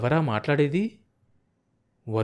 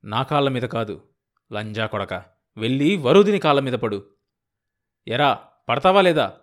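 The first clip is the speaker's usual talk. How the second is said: loud menacing order; a husband roaring at the man who wronged his wife; furious demand; 5 dB louder than usual. Acted. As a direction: force him to his knees. Husband forces apology.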